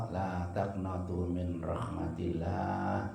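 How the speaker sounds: slow, soft recitation of la taqnatu min rahmatillah; soft verse recitation. Acted. Preacher closing with God's word to the congregation, slow soft recitation. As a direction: draw the verse out gently and slowly. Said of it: "Kata Allah".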